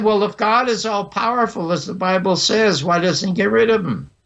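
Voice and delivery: high-pitched retold challenge; angry kid. Boy answers the outraged minister, high-pitched and indignant. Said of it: "Now I'm angry 'cause he's angry".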